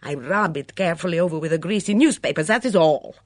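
put-on high, loud foreign-accented outrage; furious torrent. A narrator's reading. Mitzi scolding over her kitchen pans, in a furious torrent. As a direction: rant indignantly, wailing up to a peak. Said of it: "Mitzi burst into a torrent of words".

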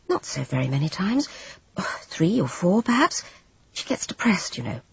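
downplay it, a little guilty; evasive Jane. Acted.

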